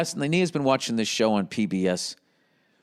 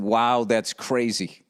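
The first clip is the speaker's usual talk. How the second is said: slow, blank mock wow; flat underwhelmed guest; 3 semitones lower, much slower than usual. A guest shrugging off his family history. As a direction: drag it out, unmoved. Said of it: "he never went deeper than".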